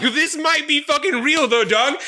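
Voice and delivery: mock-shocked, nearly squeaking. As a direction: push it way up in giddy shock. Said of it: "Like, I don't, like".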